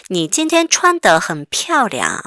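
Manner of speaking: very slow, clearly spaced syllables; slow read-aloud. Shown as a demonstration. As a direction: read it slowly for students to follow. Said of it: "읽어볼까요?". (아주 천천히 또박또박 읽기)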